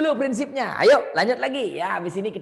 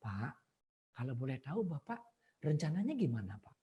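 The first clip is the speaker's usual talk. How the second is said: caring banker; 7 semitones lower, 10 dB quieter than usual. Shown as a demonstration. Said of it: "memposisikan diri sebagai orang bank".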